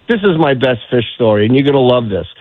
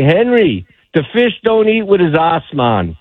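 imitated Bahamian guide, pitched up high; Bahamian accent; 5 semitones higher than usual. Bahamian guide teases his client about a bad cast, imitated Bahamian accent. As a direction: deliver a punchline as a Bahamian guide, high then dropping. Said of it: "in that Bahamian accent".

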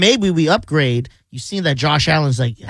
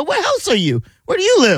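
very high, hammed-up questioning; mock nosy neighbor. Co-host teases host's porch patrol, mock nosy questioning. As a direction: interrogate a passer-by in a high mock call.

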